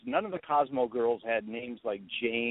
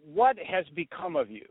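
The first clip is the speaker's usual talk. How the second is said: higher-pitched motherly reproach; lightly voiced mom; 5 semitones higher than usual. Mother reproaches her son over his book, lightly voiced mom. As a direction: lightly mimic a mother scolding. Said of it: "And she goes".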